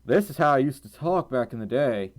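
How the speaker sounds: light demonstration of a southern twang. Shown as a demonstration. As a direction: slip into an old southern twang. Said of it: "I can do a genuine southern twang".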